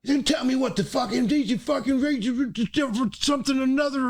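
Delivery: high, loud put-on Swiss-Southern accent; mock Southern Swiss accent. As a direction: ham up the Swiss guy with a rebel twang. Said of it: "A Southern Swiss accent is crazy".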